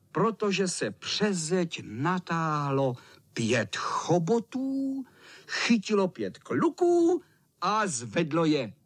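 ordinary delivery, nothing marked

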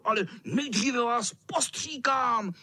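high, threatening cat voice; high spiteful cat threat; wheezing cat. A narrator's reading. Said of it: "sýpal kocour".

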